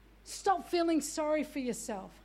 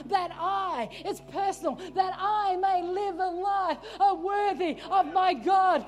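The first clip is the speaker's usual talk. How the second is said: full-force preaching. Acted. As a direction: preach it hard to the church.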